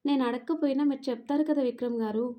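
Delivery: lightly stressed "చెప్తారు కదా", word by word; pressing each word. A narrator's reading. Madhu answers Vikram pointedly, every word through "చెప్తారు కదా" lightly pressed. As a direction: put mild weight on each word up to "Vikram గారు". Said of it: "ప్రతి మాట ఒత్తి పలుకుతూ".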